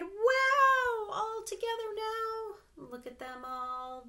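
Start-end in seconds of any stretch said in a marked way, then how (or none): 0.0-2.6 very high, loud "Wow"; frog's shout. Acted. Frog calling all the animals together, very high. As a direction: squeal it out as the delighted frog. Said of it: "the frog cried".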